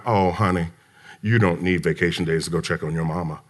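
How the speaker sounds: soft, low, motherly-kind tone; hushed, caring retold comfort; tender reassurance. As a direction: gently let her off the hook. Gently reassuring employee, retold.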